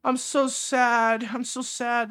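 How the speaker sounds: mock sadness. Host scoffing at news of a verbal assault, mock sad. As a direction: pretend to be heartbroken, laying on the sympathy.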